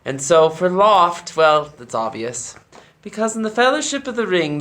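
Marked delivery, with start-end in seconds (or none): 3.0-4.6 lofty voice. Shown as a demonstration. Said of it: "talks like this".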